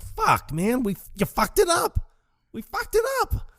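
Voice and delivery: high-pitched mock panic; panicked outcry. Dude to Walter after botched ransom call, high mock panic. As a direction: imitate a man wailing over a disaster.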